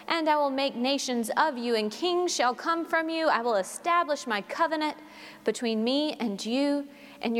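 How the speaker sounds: measured, solemn Bible reading; scripture reading. Acted. Reader to congregation, solemn measured scripture reading. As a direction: read the Lord's words with weight.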